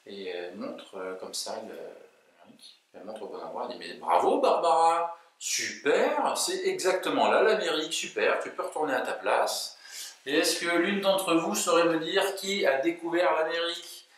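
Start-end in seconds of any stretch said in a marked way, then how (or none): 3.9-14.1 gushing teacher. Acted. Teacher praises Barbara in class, high gushing praise. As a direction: cheer the pupil like a delighted teacher.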